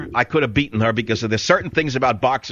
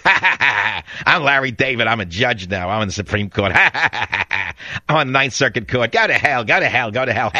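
mock arrogant judge. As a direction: play a pompous judge with a light touch. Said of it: "Pardon the pantomime".

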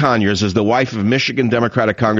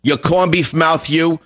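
higher and slower, jeering; mocking taunt; 7 semitones higher than usual. Real, not acted. Radio host sneering at Larry, higher, drawn-out jeer. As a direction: stretch the insult out like a schoolyard jeer. Repeats insult, escalating.

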